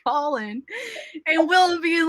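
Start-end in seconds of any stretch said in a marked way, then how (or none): 0.0-0.6 annoyed DJ. Retold or imitated. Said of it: "the D J was like".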